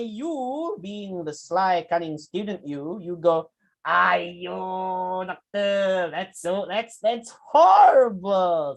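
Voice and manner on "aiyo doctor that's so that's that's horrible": slow, drawn-out mock dismay with a smile; smiling fake sympathy. Shown as a demonstration. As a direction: say it sad but grin through it. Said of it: "said the student smilingly".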